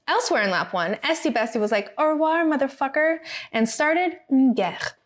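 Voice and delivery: mock-epic rhyming recap; lightly theatrical storyteller in verse; storybook narration. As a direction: read it like a rhymed fairy tale. Reads a comic race recap rhyme.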